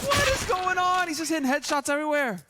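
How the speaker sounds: high, loud disbelieving yell; astonished shout. Real, not acted. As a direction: scream in disbelief at the play. Caster shocked by headshots.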